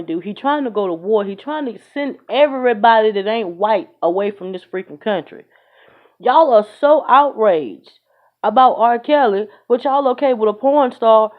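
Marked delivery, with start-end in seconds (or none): 6.2-11.3 indignant. Real, not acted. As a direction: throw their outrage back at them. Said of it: "loud slow indignation".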